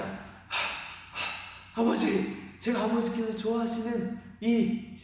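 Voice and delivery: panting son. Acted. Esau rushing in with the game for his father, panting. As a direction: puff in as if you ran all the way home.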